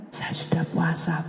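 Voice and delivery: hushed whisper. Retold or imitated. A woman tells the pastor of her fasting in a whisper. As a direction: breathe it out humbly.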